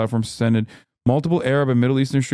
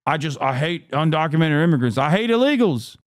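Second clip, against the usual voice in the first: put-on whiny voice climbing much higher; mocking imitation; 4 semitones higher than usual. Streamer imitates supportive fan who now hates immigrants, mocking whine. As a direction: mimic a complainer, pitch rising at the end. Acts out the turned fan's outburst.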